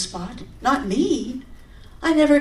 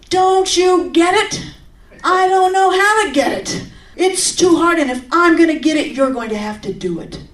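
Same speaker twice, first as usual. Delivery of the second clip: high, loud, anguished yell; screaming at God; 6 semitones higher, 4 dB louder than usual. Retold or imitated. She screams at God while running, high and loud. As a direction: cry out in frustration, pleading. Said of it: "I start screaming at God".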